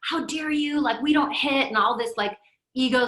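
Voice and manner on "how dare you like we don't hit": indignant. Retold or imitated. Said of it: "I could definitely feel in me".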